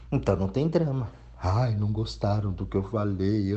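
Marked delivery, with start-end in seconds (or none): 1.4-3.5 a hammed-up wounded sigh; mock whiny complainer. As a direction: whine it like someone offended by criticism. Mocking a hurt, whiny person. (imitando alguém melindrado e chorão)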